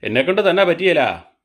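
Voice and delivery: slow, each word spelled out. Real, not acted. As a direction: repeat it slowly so grandma catches തന്നെ. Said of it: "ഏ?".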